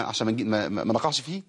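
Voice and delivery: ordinary talk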